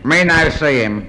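mock Chinese accent. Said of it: "an old Chinese mandarin".

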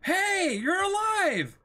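light up with relief; a high, glad cry of surprise; surprised relief. Acted. Relief at dog surviving.

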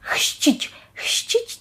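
Chrzcić with a hissing xʃ cluster and soft ć; hard Polish word. Shown as a demonstration. Teacher showing students how to say Chrzcić, careful demo. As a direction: spell out Chrzcić slowly, each hushing sound crisp. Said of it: "Важко, ще важче, ніж крzyż вимовити".

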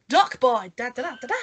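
bold, heroic title call with fanfare; superhero announcer. Pretend. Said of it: "sounds like a superhero".

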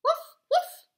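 high loud barking dog. Acted. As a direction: bark it out like a dog. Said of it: "barked the dog".

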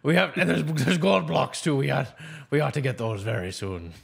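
eager pirate talk. Acted. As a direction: play it like a greedy pirate. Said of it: "the pirate voice".

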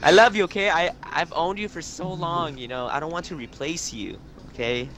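mock-tender pleading. Gamer sweet-talking his Xbox so it stays on, mock-tender. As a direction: plead with it like a loved one.

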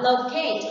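"locate" stressed on the second syllable; loCATE, teacher's model word. Shown as a demonstration. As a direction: say "locate" with the weight on -CATE. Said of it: "the stress is on the second one".

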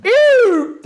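loud, high call of the name; shouting after someone from behind at night; shouted name. Retold or imitated. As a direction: yell the name across the street. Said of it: "diye bir ses duydum".

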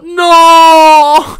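long, high, very loud wail of no; anguished shout. Real, not acted. Player watching a won game slip away, anguished shout. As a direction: cry it out at full force, held long.

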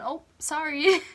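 startled little Midwestern sorry; bump apology. Acted. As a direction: blurt it after bumping someone. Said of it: "accidentally bump into someone".

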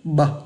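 "Bờ" as a lone letter sound; lips closed onset. Shown as a demonstration. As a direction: close the lips, then release "Bờ". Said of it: "Ngậm môi và phát âm ra này".

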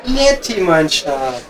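lightly crooning a pet name to a sweetheart; playful lover's call, only lightly voiced; sweet pet-name call. Calling out sweetly to Netti.

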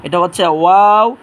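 ওয়াও said slowly and loudly, lips rounded; slow, loud letter. Shown as a demonstration. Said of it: "এটা হচ্ছে আপনার বা". (ওয়াও ধীরে, জোরে, ঠোঁট গোল করে)

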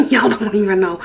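giggling through the words; laughing. Real, not acted. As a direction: laugh as you say it. Repeats line while laughing.

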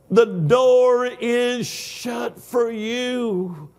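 drawn-out mock official voice; slow final refusal. Preacher imitating the gate agent, slow and final. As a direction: spell out the refusal slowly, like a stern clerk.

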